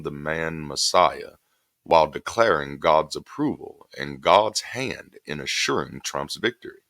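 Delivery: measured book reading voice; reading aloud. Acted. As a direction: read the essay steadily and deliberately. Reads his book excerpt aloud.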